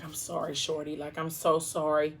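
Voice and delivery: softly, sorry and subdued; quiet apology. Retold or imitated. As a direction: murmur the apology gently. His apology to crying girlfriend.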